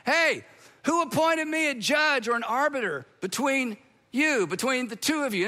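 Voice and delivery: imitated indignant call-back; mild mock yell. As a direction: yell back at a heckler, without full volume. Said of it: "stopped, and yelled back".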